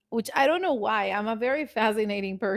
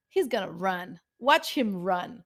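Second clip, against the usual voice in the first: inner voice; 2 semitones lower than usual. Retold or imitated. Her inner voice warning he will leave, knowing. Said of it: "my voice is always telling me".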